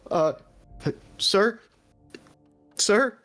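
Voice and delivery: lightly voiced nervous soldier. Soldier calling to the fallen sir in front, tentative. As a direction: tentatively check on a fallen officer, pitch lifted. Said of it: "one of the other soldiers speak up".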